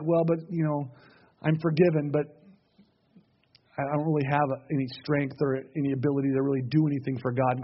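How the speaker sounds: low-key, hesitant admission; mildly defeated. Acted. Forgiven believer doubting any strength for God, mildly defeated.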